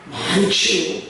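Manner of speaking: slow, drawn-out Chungcheong accent; Chungcheong dialect. Shown as a demonstration. Preacher demonstrating thanks to the congregation in Chungcheong dialect. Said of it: "충청도 버전으로".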